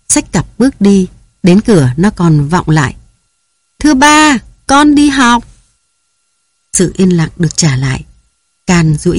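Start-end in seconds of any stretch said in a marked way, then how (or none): 3.8-5.4 put-on high little girl's call from the door; a daughter calling goodbye as she leaves for school; lightly voiced child calling. A narrator's reading. Child calls goodbye from doorway.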